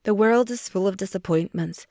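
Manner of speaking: loud mocking lecture on world; imitating his preachy tone, pressing on world; mock Finch. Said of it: "I lowered my voice".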